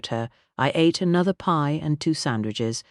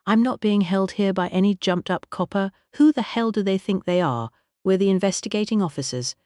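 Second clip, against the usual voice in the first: higher, indignant outburst; angry bluster; 5 semitones higher than usual. Acted. Sir Aubrey raging at the police, indignant. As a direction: huff and rage at the police.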